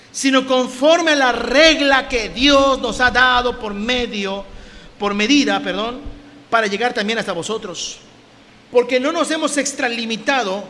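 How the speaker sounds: forceful Bible reading; scripture reading. Acted. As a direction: proclaim the verse to the congregation. Reads scripture aloud.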